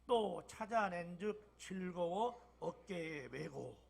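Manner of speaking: slow, measured scripture reading; congregational reading. Shown as a demonstration. Congregation reading the verse aloud, slow and measured. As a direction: read it out slowly together. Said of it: "시작".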